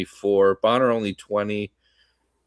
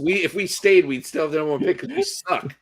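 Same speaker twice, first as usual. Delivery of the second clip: raised, insistent, almost squeaky; worked-up protest; 8 semitones higher, 3 dB louder than usual. Real, not acted. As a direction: push back hard, voice climbing. Heated rebuttal, pitch way up.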